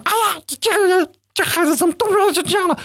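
high, shrill-pitched mock mother complaining; hammed-up exasperated mom. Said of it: "他就变成，". (高八度模仿妈妈抱怨)

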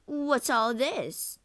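high, drawn-out question; surprised query. A narrator's reading. Lago looks in on weeping Desdemona, drawn-out surprise.

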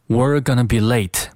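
measured "We're gonna be late", every word clear; model reading. Shown as a demonstration. Teacher models the sentence, measured "We're gonna be late". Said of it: "这句话应该怎么读".

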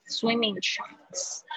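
"swimming trunks" said slowly, each sound drawn out; slow careful classroom model; slow model reading. Shown as a demonstration. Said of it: "我就是先念这些单词".

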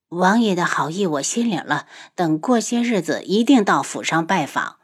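a hoarse near-whisper, barely voiced; like a throat damaged by poison. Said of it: "女子的声音有些沙哑".

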